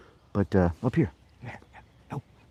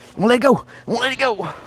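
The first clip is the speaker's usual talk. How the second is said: high teasing; 13 semitones higher, 3 dB louder, faster than usual. Real, not acted. Teasing dog.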